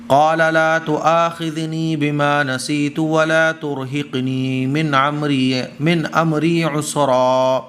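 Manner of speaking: slow, melodic Arabic recitation; Quran recitation. Acted. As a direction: chant the verse with long held vowels. (دھیمی ترتیل سے تلاوت)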